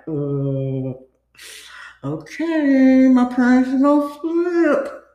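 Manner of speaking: rising, tearful whine of worry; half-crying as she pleads to get home; whiny panic. Retold or imitated. Teen girl whining to boyfriend about strict parents, tearful.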